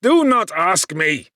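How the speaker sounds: loud, slow, high frightened cry. A narrator's reading. Victor cries out, seeing the spectre, loud and terrified. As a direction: cry out, shielding your eyes. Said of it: "cried I".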